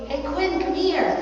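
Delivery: bright, rising call to the dog. Real, not acted. Calling the dog over.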